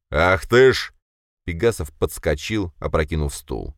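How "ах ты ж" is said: loud burst of fury; outraged exclamation. Acted. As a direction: explode with indignation. Enraged man jumps up.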